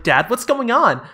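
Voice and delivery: high-pitched mock girl voice; panicked daughter. Daughter asking dad what's happening, mock panic. Acting out the frightened film daughter.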